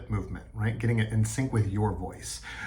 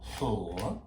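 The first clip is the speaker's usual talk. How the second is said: loud blue monster; 2 semitones higher, much slower than usual. Acted. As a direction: boom a cheerful hello. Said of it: "here's my example".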